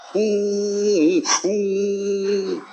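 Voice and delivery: long, soft mock wail; imitated wailing. Preacher mimics the man who pushed him weeping, imitated wailing. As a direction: draw out a wordless moan, imitating someone crying. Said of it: "dia lagi dahsyat".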